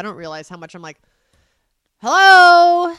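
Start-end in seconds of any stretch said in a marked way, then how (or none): 2.0-2.9 loud, high, drawn-out hello; mock impatient shout. Parent acting out how they get unheeded kids' attention, impatient shout. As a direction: call out as if nobody is listening.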